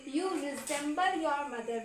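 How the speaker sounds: very slow, each word laid out for learners; slow teaching read. Shown as a demonstration. Teacher reading an English phrase to students, very slow. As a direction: spell it out slowly so students can repeat. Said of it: "English में ऐसे बोलोगे".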